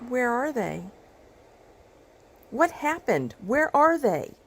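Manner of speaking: high-pitched, worried questioning; frightened, insistent questions; anxious demand. Acted. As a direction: press for answers with rising alarm. Demanding where the missing ones are.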